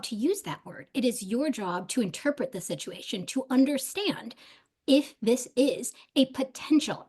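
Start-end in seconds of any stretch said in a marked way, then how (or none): 6.1-7.0 "potential" set off and leaned on; stress on potential. Real, not acted. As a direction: lean hard on the word "potential". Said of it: "I cannot emphasize that word enough".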